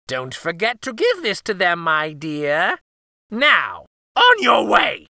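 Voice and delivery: sly then loud, high shout; sweet then shooing crone; witch voice. Acted. Baba Yaga pushes her out.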